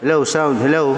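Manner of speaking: hollow reverberant test hellos; inside-a-well echo. Shown as a demonstration. Host tests the shockwave setting, voice echoing in a well. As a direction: call out as if down a well. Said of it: "nasa loob ng balon".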